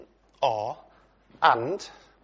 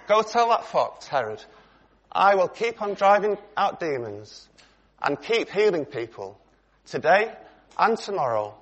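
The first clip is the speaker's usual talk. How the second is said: firm; 3 semitones higher than usual. Retold or imitated. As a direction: deliver it as a bold, unbending message. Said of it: "in no uncertain terms".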